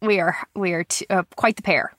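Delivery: stuffy nasal sound from a cold. Real, not acted. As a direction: talk through a blocked nose. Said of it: "I'm a little nasally".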